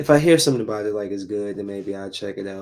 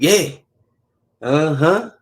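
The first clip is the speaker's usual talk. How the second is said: mock casual agreement; 7 semitones higher, 10 dB louder, slower than usual. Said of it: "Just be like".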